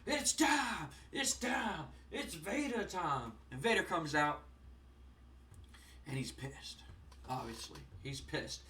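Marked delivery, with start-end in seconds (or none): 0.1-3.3 entrance call. Retold or imitated. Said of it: "all of a sudden you hear".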